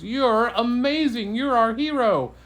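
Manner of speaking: beam at her, a proud king; grateful king. Acted. King praising the girl for returning his horn, loud and high.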